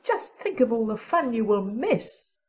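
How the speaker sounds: plaintive character voice, mildly mournful; a touch of mourning; mournful Diana. A narrator's reading. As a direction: lament it gently in the friend's voice. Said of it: "mourned Diana".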